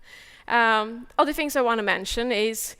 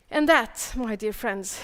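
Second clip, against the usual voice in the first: breathless after talking fast; winded, catching breath. Real, not acted. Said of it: "I'm so out of breath".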